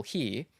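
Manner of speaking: "here" in a single syllable; one-syllable here. Shown as a demonstration. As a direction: keep "here" to one beat. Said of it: "one syllable".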